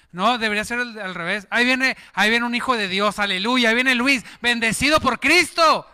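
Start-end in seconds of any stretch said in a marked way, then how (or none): 1.5-5.9 louder, exultant welcome call; joyful proclaiming greeting. Acted. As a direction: hail a friend like a blessing. Acts proper blessed greeting. (saludo jubiloso a voz en cuello)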